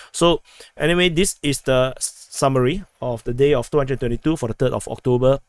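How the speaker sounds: losing voice, hoarse and worn. Real, not acted. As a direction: talk through a sore, hoarse throat. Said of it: "I'm losing my voice".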